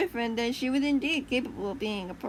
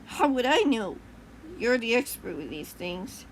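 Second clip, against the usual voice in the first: demanding; 3 dB louder than usual. Acted. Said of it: "he demanded as he stormed off".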